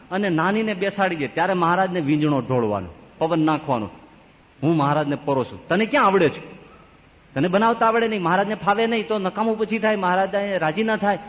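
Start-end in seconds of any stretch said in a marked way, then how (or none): 4.6-11.2 bossy elder sister. Acted. Elder sister bossing younger sister.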